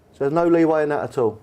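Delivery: hopeful question. Retold or imitated. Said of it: "And I said to him".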